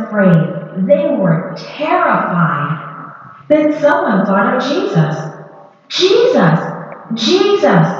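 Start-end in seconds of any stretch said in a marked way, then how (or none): 5.9-7.9 shouting his name. Acted. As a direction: call out for Jesus in the storm. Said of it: "he shouted".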